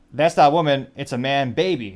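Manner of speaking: mock British Austin Powers voice, loud on the first half; a hammed-up British spy impression; British accent. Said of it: "Hilarious British voice insert there".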